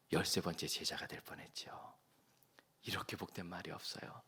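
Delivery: hushed whisper of a precious secret; soft whispered aside. Real, not acted. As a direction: breathe it in a whisper.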